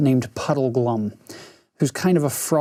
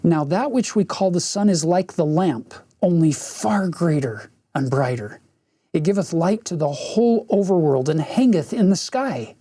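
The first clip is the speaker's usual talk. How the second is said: cold and polite; 2 semitones higher than usual. Acted. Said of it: "very coldly and politely".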